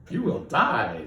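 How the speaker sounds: a lightly voiced blunt AI. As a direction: deliver doom like a cheerful computer. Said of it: "says his I A".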